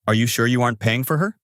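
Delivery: sly, needling question; mildly smug challenge; smirk. A narrator's reading. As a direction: ask it with a light smirk. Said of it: "I reply with a smirk".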